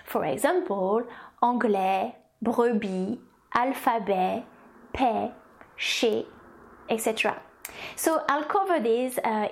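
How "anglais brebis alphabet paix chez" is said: "anglais, brebis, alphabet, paix, chez" in French, endings silent; French word list, "anglais, brebis, alphabet, paix, chez" ending on vowels; silent final consonants. Shown as a demonstration. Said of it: "some consonants are actually silent in French".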